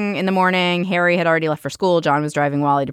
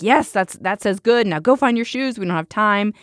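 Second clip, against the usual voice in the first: exasperated, higher-pitched mock yelling; raised, impatient voice, acted out; retold semi-scream; 6 semitones higher than usual. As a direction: imitate a rushed parent snapping orders. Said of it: "sort of screaming at him".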